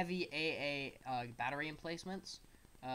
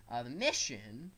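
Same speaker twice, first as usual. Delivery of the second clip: voice cracking; 4 dB louder than usual. Real, not acted. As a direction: voice cracks mid-word. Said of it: "my voice just cracked".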